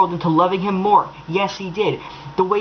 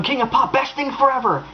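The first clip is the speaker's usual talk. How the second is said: lightly mocking fan; 5 semitones higher than usual. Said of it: "write down".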